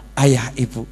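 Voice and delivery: mock tender daughter. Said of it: "katakan kepada orang tuamu".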